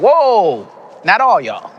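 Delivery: put-on high, loud American stand-up accent; a playful American comic put-down; comic teasing the clapping crowd in an American accent. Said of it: "talking in an American accent".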